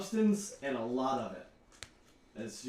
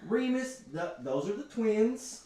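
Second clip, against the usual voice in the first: mom voice; 5 semitones higher than usual. Acted. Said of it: "she's like".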